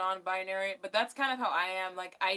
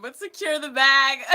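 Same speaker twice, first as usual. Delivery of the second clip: loud, pitched-up punchline; mock rallying cry; 6 semitones higher, 12 dB louder than usual. Streamer mocking the Elon Musk mess, mock rallying cry. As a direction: belt it out, then crack up. Mocking quip after an apology.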